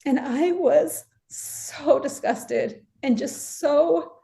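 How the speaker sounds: slow, high, heartbroken voice; real pain in the voice. Real, not acted. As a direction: let the hurt show, drawing the words out slowly. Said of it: "I hear the pain in your voice".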